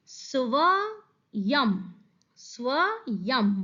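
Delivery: स्वयं very slowly, syllable by syllable; drawn-out syllables. Shown as a demonstration. Teacher showing children how to read it, स्वयं drawn out slowly. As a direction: stretch स्वयं and close on a long humming m. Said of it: "इसको पढ़ेंगे कैसे हम".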